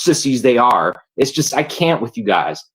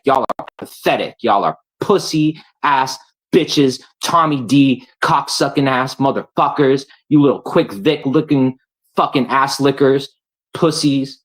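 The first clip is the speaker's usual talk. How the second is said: furious rant; 3 semitones higher than usual. Real, not acted. Ranting insults at viewers.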